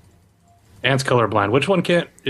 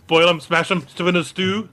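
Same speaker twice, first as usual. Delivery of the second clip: Samwise quote; 6 semitones higher than usual. Retold or imitated. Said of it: "What's potatoes, precious".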